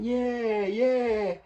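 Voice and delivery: loud, very high strained reply; imitated patient. Patient asked about his postman job, high imitated cry.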